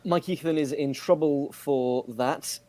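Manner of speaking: slow, stilted narration; like an uneasy narrator reading a script; awkward narrator. Real, not acted. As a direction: read it out awkwardly, with measured slowness. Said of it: "It just sounded like a very awkward narrator".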